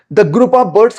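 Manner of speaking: slow, careful model phrase for learners; teacher slowly modelling an easy English phrase. Shown as a demonstration. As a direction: spell out each word slowly for the class. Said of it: "काम चल जाएगा आपका".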